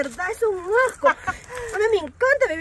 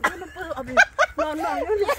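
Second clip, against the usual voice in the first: laughing through pain; 3 semitones higher than usual. Acted. Can't speak for laughing.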